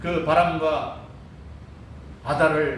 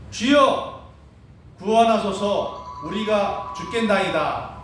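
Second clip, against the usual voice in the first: crying out, retold; 2 semitones higher, slower than usual. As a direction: call out for rescue, drawing the words out. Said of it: "소리를 지르면서".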